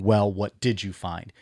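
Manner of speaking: slowed question, weight on did; what DID you find, drawn out; stress on DID. Retold or imitated. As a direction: lean on DID as you quote it. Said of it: "with an emphasis on the word did".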